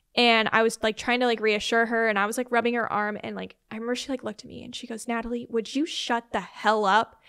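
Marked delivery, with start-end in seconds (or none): 5.1-7.1 put-on super angry snap, much slower. Speaker quotes a woman snapping at her while being reassured, retelling a super angry snap. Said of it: "she was super angry".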